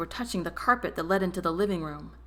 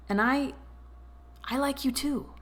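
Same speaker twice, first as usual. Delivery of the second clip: solemn; 7 semitones higher than usual. Acted. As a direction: admit it solemnly. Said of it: "he said solemnly".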